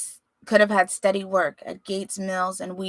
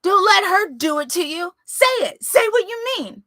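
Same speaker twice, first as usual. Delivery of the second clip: high, loud, desperate sobbing plea; tearful plea; 12 semitones higher, 7 dB louder than usual. Acted. Son pleading with his father through tears. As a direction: beg him through tears.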